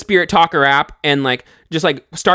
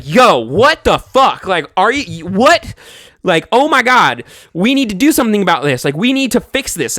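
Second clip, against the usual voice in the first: alarmed friend; 3 semitones higher than usual. Retold or imitated. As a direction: freak out at the noises. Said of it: "she's like".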